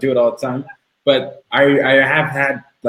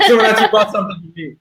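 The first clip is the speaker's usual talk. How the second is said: imitating disbelief; 9 semitones higher, faster than usual. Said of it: "they actually freak out".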